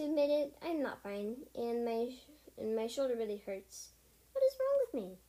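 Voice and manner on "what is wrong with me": high, loud despairing cry; distressed cry. Acted. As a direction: cry out in pain and fear. Injured cat cries out in distress.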